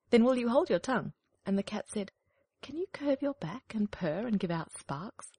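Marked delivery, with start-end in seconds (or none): 0.1-1.1 higher, louder scolding hen. Acted. 2.6-5.3 slow, drawling snooty cat; lazy, superior cat voice; snooty bored cat. Acted. Cat questions duckling.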